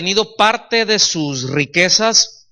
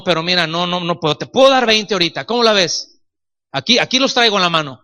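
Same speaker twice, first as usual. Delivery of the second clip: pushy haggling buyer; 2 semitones higher than usual. Retold or imitated. Buyer lowballing a needy brother.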